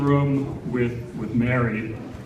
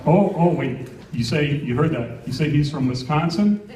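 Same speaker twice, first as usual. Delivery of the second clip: excited phone call; 3 semitones higher than usual. Retold or imitated. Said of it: "this is me on the phone with J C".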